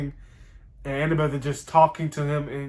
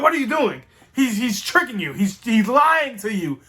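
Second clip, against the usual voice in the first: higher, urgent mock alarm; Percy cutting in, pleading with her; 5 semitones higher than usual. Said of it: "He's like".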